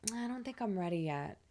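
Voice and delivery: softly voiced, mildly reluctant reply; a touch of timid hanging back; hesitant Virgo moon. Virgo moon answering Jupiter's push, mildly hesitant. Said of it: "Virgo moon is like".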